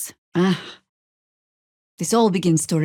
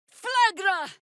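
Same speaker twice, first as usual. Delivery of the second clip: spell cry. Acted. Casting fire spell.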